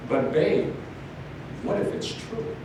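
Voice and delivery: whispered, gentle question; soft hopeful wife. Retold or imitated. Wife gently encouraging her husband, whispered. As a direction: plant the hope softly.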